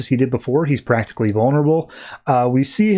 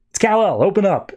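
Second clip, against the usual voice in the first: higher-pitched call at a door; retold call to be let in, pitched up; 6 semitones higher than usual. Calling out at a closed door.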